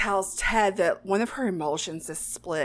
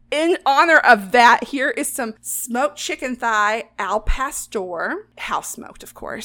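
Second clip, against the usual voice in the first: mock chef announcement; 6 dB louder, slower than usual. Chef announcing the course after grim story.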